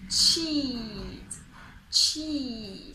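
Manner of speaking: CHEAT with a long, falling EE; long smiling EE. Shown as a demonstration. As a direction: smile through the EE in CHEAT. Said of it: "Look at my lovely smile again".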